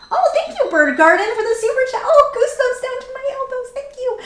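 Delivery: very high little squeaky voice; high-pitched thanks. Real, not acted. Streamer thanking viewer for super chat, very high-pitched.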